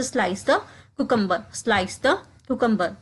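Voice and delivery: slow, careful drill phrase; slowed classroom demo; slow model repetition. Shown as a demonstration. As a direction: say it slowly for learners to copy. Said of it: "जैसे".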